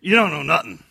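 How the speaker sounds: loud New York jab, "don't" punched; blunt New York retort; New York accent. Shown as a demonstration. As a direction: bark it in New York style. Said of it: "that's a joke".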